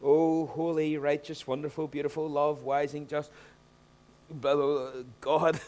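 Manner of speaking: lightly hammed-up pompous praying; imitating a showy rabbi's long prayer; mock flowery prayer. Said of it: "uses sixteen adjectives before".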